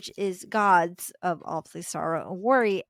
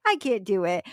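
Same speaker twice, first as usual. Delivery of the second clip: mock crying; 4 dB louder than usual. Storyteller voices Psyche facing an impossible task, mock crying. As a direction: imitate someone giving up in tears. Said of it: "She just starts crying".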